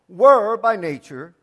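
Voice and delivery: WERE drawn out slowly and loud; slow emphasis on WERE; stress on WERE. Shown as a demonstration. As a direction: stretch the word were, then finish the phrase. Preacher repeats verse to stress WERE.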